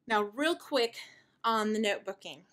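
breathless, catching her breath. Real, not acted. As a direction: talk between heavy breaths. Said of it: "sorry I'm so out of breath".

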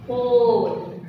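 whole said as "hole", drawn out; silent W. Shown as a demonstration. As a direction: say whole with no W sound. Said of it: "but we pronounce". (whole ಅನ್ನು "ಹೋಲ್" ಎಂದು ಉಚ್ಚರಿಸಿ)

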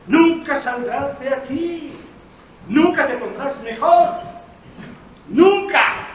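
loud, slow doom; menacing. Acted. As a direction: pronounce it like a sentence. Doctor menacing the patient.

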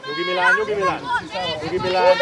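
calming. Real, not acted. Coach telling a player to calm down, reassuring call. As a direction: settle the player down in a low voice.

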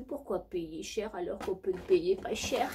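secretive whisper; conspiratorial whisper in character. Acted. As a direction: lean in and whisper it.

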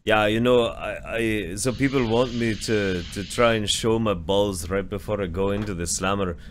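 lightly attempted Scottish accent imitating a streamer; a rough go at Scottish; bad Scottish accent. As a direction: do a clumsy Scottish impression. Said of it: "I don't care if my Scottish accent is bad".

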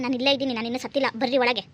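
loud, sharp scolding. Acted. Wife scolding her husband to come inside, loud and cross. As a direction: tell him off loudly.

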